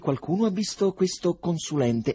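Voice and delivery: dialogo recitato acuto e forte; personaggi concitati. A narrator's reading. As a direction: alza voce e tono, agitato. Dialogo concitato nel racconto. (concitato, a voce alta)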